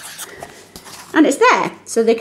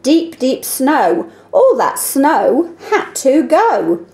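slow, deliberate read-aloud for eyes-closed listening; 2 semitones higher, much slower than usual. Shown as a demonstration. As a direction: read it slowly so they picture it. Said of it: "So they're closing their eyes".

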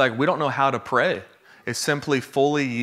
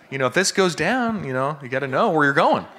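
higher, words breaking into laughter; laughing; 4 semitones higher than usual. Real, not acted. Preacher jokes to church about planes going down, laughing. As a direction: grin through the warning.

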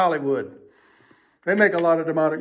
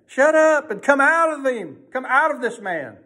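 higher-pitched mock command, easing at the end; harsh rebuke; 5 semitones higher than usual. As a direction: retell a stern order to a demon. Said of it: "He spoke harshly. He rebuked".

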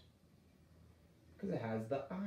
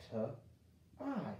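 very slow, stretched "t-I"; sounding out; 4 dB quieter than usual. Shown as a demonstration. Teacher sounding out tie for kids, very slow. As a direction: drag out the sounds. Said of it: "the I is gonna say".

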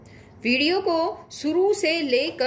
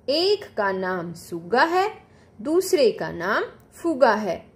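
put-on calm storybook narration for children; gentle classroom storytelling; story reading. A narrator's reading. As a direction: read on evenly, like a class reader. Teacher continues reading the story.

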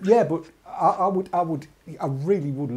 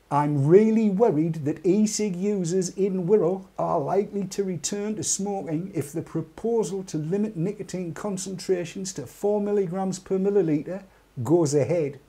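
slow emphatic reread; 3 semitones higher than usual. Shown as a demonstration. Host rereading the quote to chat, slow and emphatic. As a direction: read it again slowly so it sinks in. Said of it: "I'm going to read that again".

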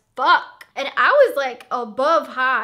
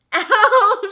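laughing ow; 7 semitones higher, 9 dB louder than usual. Real, not acted. Reacting to pain, laughing.

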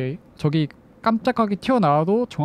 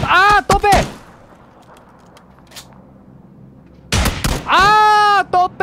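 excited shout; 13 semitones higher, 6 dB louder, much slower than usual. Real, not acted. Caster yells at missed shots.

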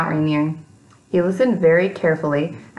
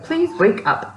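high gentle plea; 9 semitones higher, slower than usual. A narrator's reading. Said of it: "he said".

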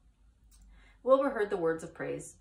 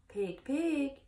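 kind voice; 7 semitones higher than usual. A narrator's reading. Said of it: "in a kind voice".

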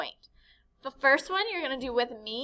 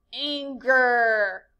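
angry; 6 dB louder than usual. Shown as a demonstration. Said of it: "express a strong feeling, such as".

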